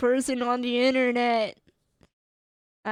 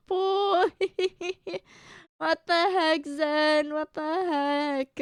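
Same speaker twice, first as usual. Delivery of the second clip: high, startled burst; surprised exclamation; 4 semitones higher, slower than usual. Real, not acted. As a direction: caught off guard by the message. Surprised reading birthday message.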